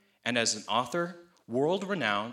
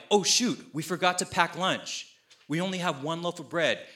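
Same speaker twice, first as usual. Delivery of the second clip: higher-pitched mock alarm; mock dismay; 5 semitones higher than usual. Disciples in the boat finding lunch forgotten, mock dismay. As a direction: play at fretting over a small slip. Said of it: "then they start panicking".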